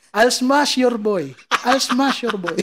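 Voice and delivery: slow mock Russian accent; Khabib. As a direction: imitate a Russian-accented fighter's taunt, drawn out. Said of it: "Yun yung iconic niya".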